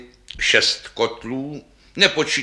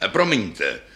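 deep voice. Acted. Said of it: "pravila hlubokým hlasem basa".

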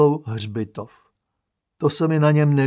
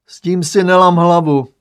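loud, higher booming aunt; bellowing; 4 semitones higher, 10 dB louder than usual. Acted. Aunt yelling at her brother from the stove, loud bellow. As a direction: roar it across the kitchen, much louder. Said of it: "zařvala na něj od plotny".

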